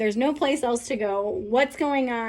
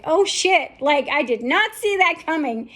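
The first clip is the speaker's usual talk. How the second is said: higher, louder startled "oh shit"; shocked outburst; 3 semitones higher, 4 dB louder than usual. Retold or imitated. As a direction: blurt it as if the floor just dropped. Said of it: "We're like".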